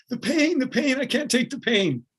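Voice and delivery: high, strained wail of pain, imitating the kid; mock anguished cry. Runner on the asphalt crying to his coach, high anguished wail.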